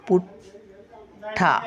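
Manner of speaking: पुठ्ठा stretched very slowly with doubled ठ; slow careful syllables. Shown as a demonstration. Grandmother showing the word to children, slowly. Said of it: "पुठ्ठा दाखवते तुम्हाला".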